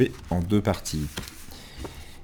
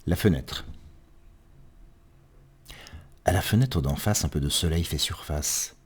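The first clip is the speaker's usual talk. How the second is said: poem recitation. Acted. Reader describing sun and moon at a window, understated poetic recitation. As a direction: let the last line fade away.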